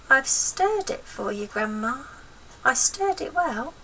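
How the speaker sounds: put-on timid boy pleading with his gran. George voiced in story.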